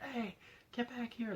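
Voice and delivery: high-pitched imitation of screaming, held back in volume; high, contained retold yell; mock scream. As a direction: imitate a man yelling from afar, without full volume. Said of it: "running and screaming like".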